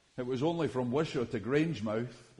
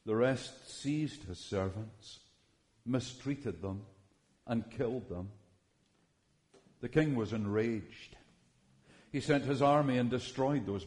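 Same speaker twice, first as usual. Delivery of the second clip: scripture reading. Acted. Pastor reading the wedding banquet parable to the congregation, steady. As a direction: tell the parable plainly and reverently. Reads Matthew parable aloud.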